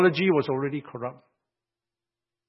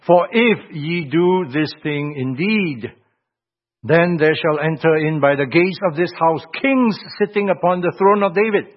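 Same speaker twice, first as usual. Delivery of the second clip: measured start, rising into a louder proclamation; scripture reading; 2 semitones higher, 4 dB louder than usual. Real, not acted. Preacher reads God's promise to the king, proclaimed scripture. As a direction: proclaim the verse with weight.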